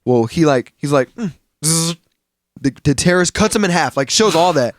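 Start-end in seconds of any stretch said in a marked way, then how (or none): 1.1-1.9 buzzing zap sound effect; imitated laser noise. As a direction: mimic a laser with a buzz. Imitates laser eyes cutting.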